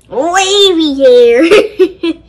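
slow, stretched, laughing; laughing punchline. Real, not acted. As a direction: laugh it out slowly.

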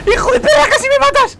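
high, loud outraged yell; angry yell. Real, not acted. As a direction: yell at a friend who nearly killed you. Nearly killed by a mine.

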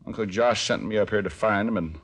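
put-on Arkansas country accent; country hick act. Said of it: "How about a Swedish dialect?".

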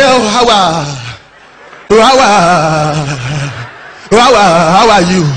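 stammering teacher. Retold or imitated. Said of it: "na chronic stammerer".

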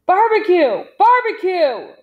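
high, loud urgent name call; yelling. A narrator's reading. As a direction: yell to snap a comrade out of it. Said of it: "Big John yelled".

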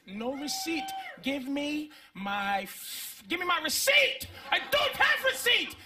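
cashier shouting back. Retold or imitated. Cashier refusing the receipt, building to a shout.

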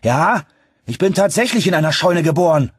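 loud, high, angry comeback; grim. A narrator's reading. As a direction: fling the insult back grimly. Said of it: "sagte ich grimmig". (grimmig, laut und gereizt)

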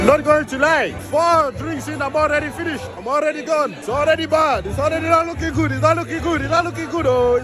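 lightly put-on Nigerian accent; tipsy attempt at a Nigerian accent. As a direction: play up a Nigerian accent for a pub game. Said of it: "had to do the accent rule".

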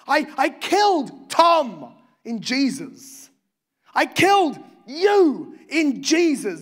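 slow, weighty words of the Father; a hint of God the Father. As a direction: pronounce it slowly like a divine decree.

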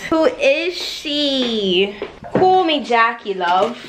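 a light put-on British accent as Jackie. Vlogger introducing her wig persona Jackie, light British accent. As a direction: play the wig character with a hint of British. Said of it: "my other wigs have accents".

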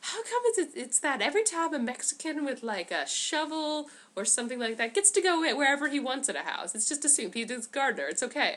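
high, puzzled goon voice; dim minions. Retold or imitated. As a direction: play a confused henchman. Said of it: "they're like".

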